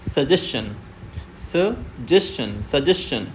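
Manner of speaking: suggestion with the ending said chun; teacher gives the right suggestion; correct pronunciation. Shown as a demonstration. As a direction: end suggestion in a clear ch sound. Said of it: "it is, it's".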